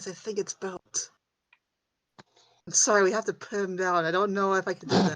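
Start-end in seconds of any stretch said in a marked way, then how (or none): 0.0-1.1 slow, hushed whisper, said aside. Voicing a character who tries to whisper to another: whispering in character. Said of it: "tries to whisper to Swift".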